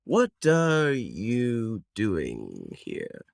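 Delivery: a lightly voiced stern druid, slowing on the question; guard of the woods questioning strangers. Druid NPC voice, slow ominous line.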